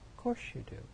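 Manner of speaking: a quiet, breathy reassurance; soft whisper. Real, not acted. Preacher softly reassuring the congregation, whispered. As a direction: whisper it gently.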